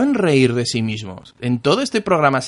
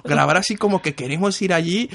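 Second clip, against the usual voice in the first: trying not to laugh; 3 semitones higher than usual. Retold or imitated. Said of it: "aguantándose la risa".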